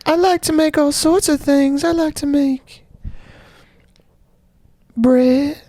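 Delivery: a singer's voice. Pretend. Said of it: "a singer".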